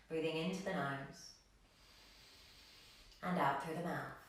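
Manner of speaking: soft, unhurried breathing guidance; calm yoga teacher leading breathwork; guided meditation. Acted. Leads calming breathing practice.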